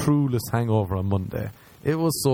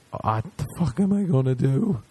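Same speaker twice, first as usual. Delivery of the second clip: higher-pitched retold panic; freaking out; 4 semitones higher than usual. Asking his buddy what to do about the blood, freaking out. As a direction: act out a rising mock panic. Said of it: "Freaking out".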